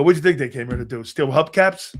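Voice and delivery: fast, pointed sarcastic retort; sarcastic challenge. Retold or imitated. Grandson teasing grandfather about his suspicion, fast and sarcastic. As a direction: needle him with a quick jab. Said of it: "And I go".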